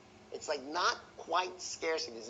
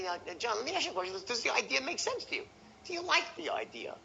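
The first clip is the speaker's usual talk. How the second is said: light, rising and much higher, casual and hypothetical; money aside tonality; 7 semitones higher, faster than usual. Shown as a demonstration. Salesman to prospect John, airy high hypothetical question. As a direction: float the question up high as if money doesn't matter. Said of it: "hypothetical or money aside tonality".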